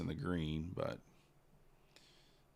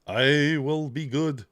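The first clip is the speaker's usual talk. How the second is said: high, loud, drawn-out dog voice; pleading dog; 6 semitones higher, 9 dB louder, much slower than usual. Acted. Trader voicing his dog facing the spray bottle, mock-obedient dog voice. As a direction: stretch each word, pitched up, hammed up. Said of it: "he'll look at me like".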